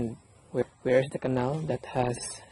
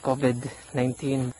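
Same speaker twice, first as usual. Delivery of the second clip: muffled behind a mask; through a face mask. Real, not acted. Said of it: "don't mind the mask".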